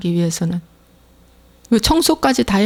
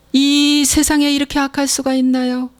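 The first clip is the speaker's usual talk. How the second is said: ordinary talk, nothing marked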